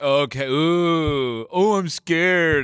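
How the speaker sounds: very slow, sarcastic hipster voice. Acting a sarcastic hipster who brushes off a demon: mock-sarcastic hipster voice. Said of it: "some sarcastic hipster that's like".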